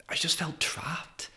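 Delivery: slow breathy whisper, pitch lifted; quietly whispered, feeling trapped; whispered confession. Real, not acted. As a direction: let the words slip out as a hushed, helpless admission. Admitting he felt stuck.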